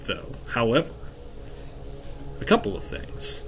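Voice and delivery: measured, portentous narration with long pauses; game master scene setting. Acted. Game master revealing a magical thing's secrets to players, measured and portentous. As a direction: unfold an ancient mystery phrase by phrase.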